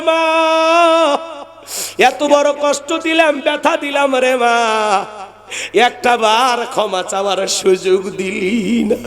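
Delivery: high keening grief at the grave; wailing lament. Acted. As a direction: cry it out over mother's grave. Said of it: "হাউমাউ করে কাঁদে আর বলে".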